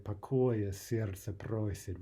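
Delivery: slow verse, a touch weary. Shown as a demonstration. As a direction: draw the line out with understated weariness. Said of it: "speaks of a kind of weariness".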